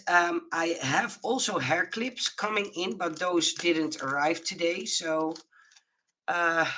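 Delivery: breathless after flu, catching breath; short of air, pausing to breathe. Real, not acted. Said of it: "I have to catch my breath".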